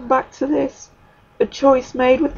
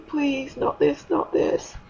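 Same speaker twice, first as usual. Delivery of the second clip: begging; 4 dB quieter, slower than usual. Retold or imitated. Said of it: "crying to God and begging".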